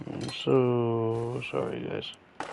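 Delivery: slow, drowsy apology; half asleep, dragging words; nodding off. Real, not acted. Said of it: "I'm dozing".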